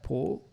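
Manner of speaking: PO with a pure, rounded Portuguese o. Retold or imitated. Coach isolates the learner's vowel, Portuguese o in PO. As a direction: isolate PO as a Brazilian would say it. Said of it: "sounds like a Portuguese o".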